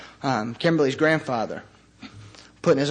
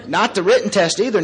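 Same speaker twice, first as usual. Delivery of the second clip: laughing; 5 semitones higher, 4 dB louder than usual. Real, not acted. Laughing about failing driving test.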